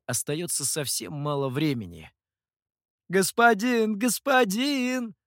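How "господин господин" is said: high, loud, drawn-out street call; hawker calling. A narrator's reading. A food stall owner calls out to passers-by. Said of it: "зазывал хозяин одной закусочной".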